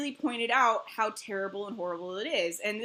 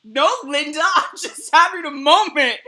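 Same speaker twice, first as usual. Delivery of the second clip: loud, high indignant protest; mock offended, half laughing; defensive denial; 4 semitones higher, 11 dB louder than usual. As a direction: brush it off, flustered. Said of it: "And I'm like".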